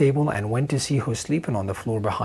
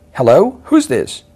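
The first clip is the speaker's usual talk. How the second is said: loud, higher demanding yell; yelling into a strange ringing phone in panic; 4 semitones higher, 8 dB louder than usual. A narrator's reading. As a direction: shout into the phone. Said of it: "I yelled".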